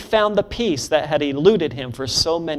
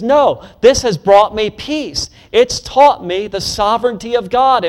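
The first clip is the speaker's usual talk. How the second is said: preached declaration; 6 semitones higher, 5 dB louder than usual. Acted. Preaching at full force.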